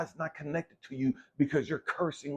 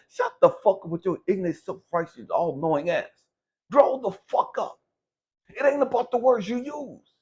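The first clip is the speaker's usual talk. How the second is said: angry rant; 3 semitones higher, 6 dB louder than usual. Real, not acted. Ranting at self-righteous critics.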